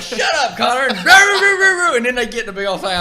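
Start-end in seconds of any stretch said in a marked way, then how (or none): 0.0-0.9 high, loud mock yell at a classmate; yelling shut up. A classmate yelling at Connor to shut up, high mock yell. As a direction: snap it loud and high like an annoyed kid. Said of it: "Brian'd be like".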